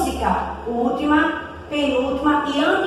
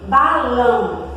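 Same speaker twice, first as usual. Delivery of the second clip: "Balão" drawn out slowly, weight on "lão"; slow teaching demo of "Balão"; stress on last syllable; 2 semitones lower, slower than usual. Shown as a demonstration. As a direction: stretch "Balão" to show its syllables. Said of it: "o som forte está na última".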